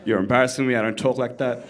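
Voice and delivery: dad's plain Australian reply, slightly low; understated Australian dad on the phone; dad's Australian accent. Acted. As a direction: reprove your son in everyday Australian. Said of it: "my dad's on the other end".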